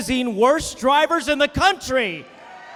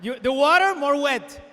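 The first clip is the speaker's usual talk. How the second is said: put-on Cuban exile accent. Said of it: "old exile's boasts continue".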